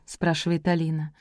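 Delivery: usual speaking voice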